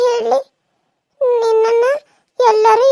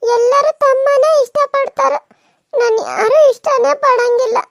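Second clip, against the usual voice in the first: crying; 2 semitones higher than usual. Acted. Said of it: "ಯಾಕಕ್ಕ ಅಳಕತ್ತಿದಿ?".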